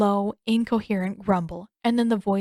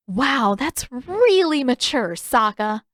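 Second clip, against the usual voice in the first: slow, sarcastic sister; a lightly voiced sarcastic Katara; 4 semitones higher, 5 dB louder, slower than usual. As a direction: drag it out with dry scorn.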